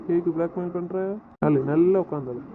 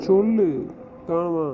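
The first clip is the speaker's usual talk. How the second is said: loud demand; 4 dB louder, slower than usual. Real, not acted. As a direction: push her to answer. Insists she name an amount. (உரத்த குரலில் வற்புறுத்தல்)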